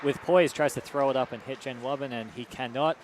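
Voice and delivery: brisk hockey play-by-play, quickening with the action; live play-by-play. Acted. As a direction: call the game as it happens.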